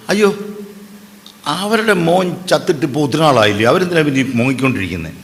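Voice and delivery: scornful gossiping neighbour; dismissive gossip. Retold or imitated. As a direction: cluck your tongue at her grieving. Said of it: "I've heard people say".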